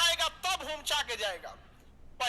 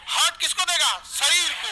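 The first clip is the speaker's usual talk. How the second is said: louder, firmly called out; loud answer; 2 semitones higher, 7 dB louder than usual. Shown as a demonstration. Teacher asks the class to answer loudly. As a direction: call it out strongly. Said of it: "आपकी तेज बोलना है".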